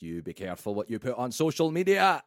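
lightly voiced Scottish dad's warning; a hint of a Scottish father cautioning; Scottish accent. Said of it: "That was, that was my Scottish accent".

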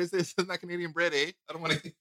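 teasing imitation with a Canadian accent. Co-host mimics guest refusing the bread, mock Canadian accent. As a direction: put on a light Canadian accent. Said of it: "That was a good accent".

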